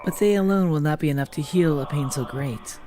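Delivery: slow, solemn lightly voiced keeper; lightly voiced NPC. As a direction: intone like an ancient guardian. Voicing game NPC dialogue.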